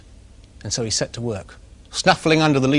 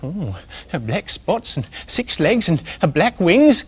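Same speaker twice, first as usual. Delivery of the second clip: alarmed squirrel; 4 semitones higher, slower than usual. Acted. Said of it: "The squirrel looked alarmed".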